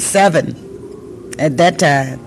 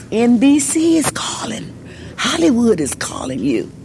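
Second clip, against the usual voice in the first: mild mock yell, the opening much higher in pitch; calling out the news from across the street, a hint of a yell; retold yell; 7 semitones higher than usual. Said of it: "And he yelled".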